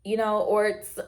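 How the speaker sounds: normal talking voice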